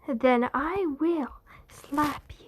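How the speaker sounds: a slow, menacing whisper; whispered threat. Acted. Teacher threatening the cussing kids, slow menacing whisper. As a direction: hiss the threat slowly at the kids.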